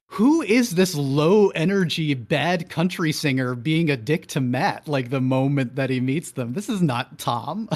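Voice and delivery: mocking the show's version of a character; mock disdain. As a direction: sneer at a limp, lazy singer. Mocking Tom's intro, "I'm like.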